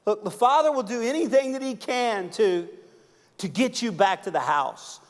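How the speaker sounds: high, loud impassioned preaching; preaching at full force. Real, not acted. Preacher pressing the church about the Father's love, high and loud. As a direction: urge the crowd with climbing intensity.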